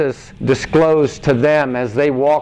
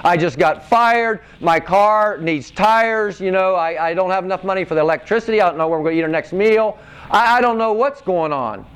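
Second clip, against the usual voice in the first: pitched up, a touch of worried pleading, quickening on the money worries; mild troubled lament; 4 semitones higher than usual. Retold or imitated. Preacher voicing a struggling believer's worries, a touch of distress. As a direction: lightly voice someone hurting and confused.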